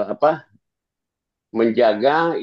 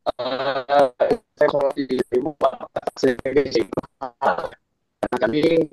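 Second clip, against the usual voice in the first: corrupted glitchy audio. Real, not acted. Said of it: "Suaranya nggak jelas".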